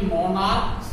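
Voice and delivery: मोनार्क्स, its CH sounded as क. Shown as a demonstration. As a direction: say मोनार्क्स with a hard K before the S. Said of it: "सीएच का pronunciation क होगा".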